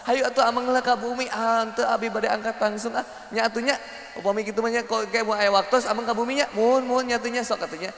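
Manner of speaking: imitated polite women's chit-chat; sweet to the face. Women parting with invitations, mock-sweet. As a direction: put on friendly sweetness. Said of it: "wanita mah manis di depan".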